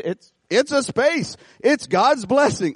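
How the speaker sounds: wife calmly reassuring about the parking space; light wife voice. Retold or imitated. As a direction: gently insist it's just a space.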